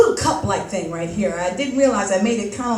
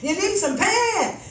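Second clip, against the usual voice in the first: heckler's shout; 4 semitones higher than usual. Retold or imitated. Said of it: "a guy shouts up to the audience".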